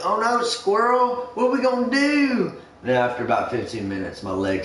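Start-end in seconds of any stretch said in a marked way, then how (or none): 0.0-2.5 mock-panicked coworker. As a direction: drag out the fake panic, pitched high. Coworker voiced again.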